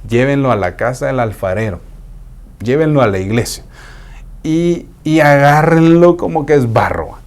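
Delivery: lightly voiced Lord sending his child to be shaped; a hint of a gentle God speaking. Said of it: "Y dice el Señor".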